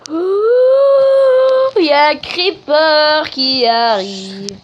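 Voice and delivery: high, slow laughing panic; nervous laughing. Real, not acted. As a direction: laugh through the fear. Creeper approaching, laughing.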